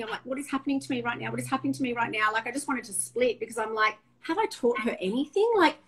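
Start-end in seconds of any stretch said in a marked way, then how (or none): 0.2-2.3 fast, racing self-questioning; retold inner panic. Mum outside the room, heart pumping, rushed retold panic. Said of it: "heart pumping". 4.2-5.8 high, loud burst of panicked questions; imitating a mum losing it, pitch climbing; retold flip out. Mum questioning herself after the row, high retold flip out. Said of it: "I went into this flip out".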